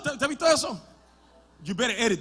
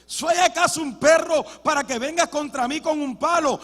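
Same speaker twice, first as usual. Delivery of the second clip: mild giant's roar; 8 semitones higher, 10 dB louder than usual. Acted. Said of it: "Le rugió y le dice".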